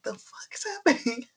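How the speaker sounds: breathy whispered disbelief; whispering. Retold or imitated. Whispered reaction to shocking moments.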